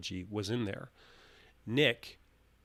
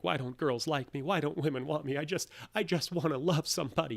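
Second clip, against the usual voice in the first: higher-pitched pathetic pleading; sad and desperate; 5 semitones higher than usual. Retold or imitated. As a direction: imitate a lovesick man whining in despair. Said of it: "gets really sad and desperate".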